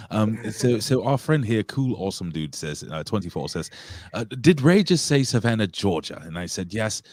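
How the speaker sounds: put-on British accent. Host reading out a listener's question, put-on British accent. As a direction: talk like a mock Brit. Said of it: "you're talking like a Brit".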